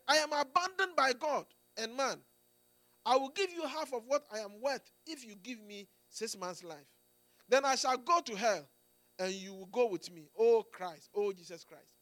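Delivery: preacher voicing a dying man's despair, mild cry; desperate cry. Preacher retells Voltaire's deathbed words, desperate cry. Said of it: "he cried out most desperately".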